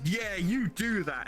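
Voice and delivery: drawn-out egging on, lightly acted; cheering French public. French public backing the protesting farmers, mock approval. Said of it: "rest of the French are like".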